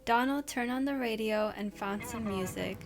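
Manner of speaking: steady storyteller voice, reading a scary tale; spooky story reading. Acted. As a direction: read it like a campfire ghost story.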